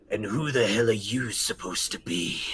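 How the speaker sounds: lightly voiced low challenge; unfamiliar character voice. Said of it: "another voice unfamiliar to you".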